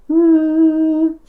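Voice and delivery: high, loud buzzing ng on no. Shown as a demonstration. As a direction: ring out a buzzing twang on no.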